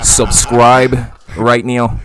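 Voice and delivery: very slow, loud promo call; announcer voice. Acted. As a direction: drag it out like a radio ad. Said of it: "What the fuck?".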